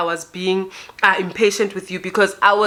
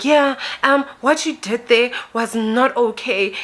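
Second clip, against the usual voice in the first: higher-pitched complaint; confronting woman; 4 semitones higher than usual. Retold or imitated. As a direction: imitate her accusing you, pitched up. Confronting woman voiced in retold argument.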